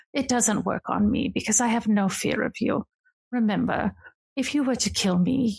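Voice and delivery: lightly voiced regal older sister, teasing; a hint of a grand lady purring at her brother. Sister greeting her brother on the porch, lightly regal and teasing.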